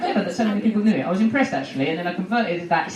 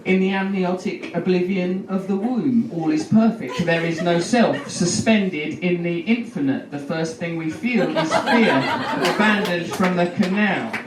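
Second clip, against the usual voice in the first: mock poetic reading; 3 semitones lower than usual. Shown as a demonstration. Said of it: "I can use that in a sentence now".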